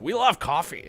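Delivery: attempted Scottish accent. Shown as a demonstration. Trying the Scottish voice from reading to the daughter, Scottish accent. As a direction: have a go at a Scottish lilt. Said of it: "weird Scottish accent".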